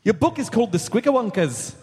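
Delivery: Irish accent. Shown as a demonstration. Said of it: "Nope, that's Irish".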